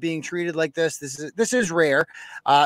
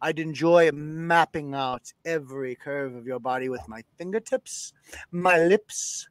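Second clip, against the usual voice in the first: lightly lowered seductive man voice; Tom Mountain voice. Acted. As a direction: read it like a smooth-talking guy. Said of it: "back in".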